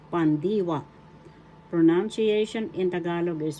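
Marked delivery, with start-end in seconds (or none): 0.1-0.8 "pandiwa" demonstrated with accent on "di"; careful pan-DI-wa for learners; stress on second syllable. Shown as a demonstration. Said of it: "That's how you pronounce".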